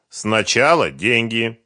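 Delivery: slow, deliberate, loud repetition; stubborn. A narrator's reading. Сухарев repeating his demand to Фёдор, stubborn. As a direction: spell it out slowly, unbudging. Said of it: "упрямо сказал Сухарев".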